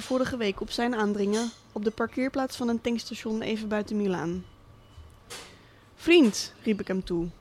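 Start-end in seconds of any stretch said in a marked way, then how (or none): 5.9-6.5 called out loudly and high, a bit too hard. Retold or imitated. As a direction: hail him too loudly, testing his reaction. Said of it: "iets te hard". (iets te hard geroepen, luid en hoog)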